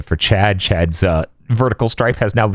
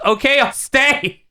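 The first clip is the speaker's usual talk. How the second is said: imitating Ichigo; slower than usual. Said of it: "and then he goes".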